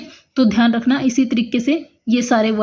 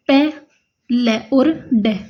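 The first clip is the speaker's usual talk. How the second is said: slow, sounds apart; slower than usual. Shown as a demonstration. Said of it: "अलग अलग बनाया".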